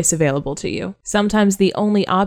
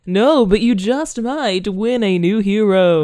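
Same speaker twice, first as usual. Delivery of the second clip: game show host; 2 semitones higher, slower than usual. Pretend. Continuing game show host bit.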